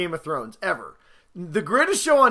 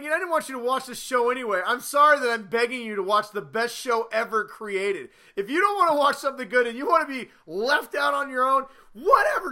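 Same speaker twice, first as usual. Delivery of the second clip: sulky fast rant; 5 semitones higher than usual. Retold or imitated.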